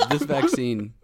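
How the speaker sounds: laughing mock announce.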